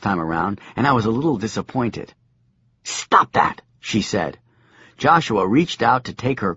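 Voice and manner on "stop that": hissed whisper; old woman whispering. A narrator's reading. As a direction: whisper it sharply. Crone, unvoiced.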